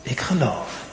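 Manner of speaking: softly, almost under the breath; a quiet, inward "Ik geloof"; hushed confession. Acted. The father confessing quietly to Jesus, hushed.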